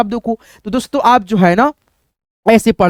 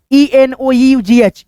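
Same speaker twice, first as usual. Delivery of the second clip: slow spelling; 3 semitones higher, much slower than usual. Shown as a demonstration. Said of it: "इसको पढ़ेंगे हम लोग एनफ".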